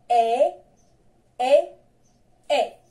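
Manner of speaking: "E" said as a clear open French e sound; model pronunciation. Shown as a demonstration. Teacher models "E" for pupils to repeat. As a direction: say "E" slowly for the class to copy. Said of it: "Répétez".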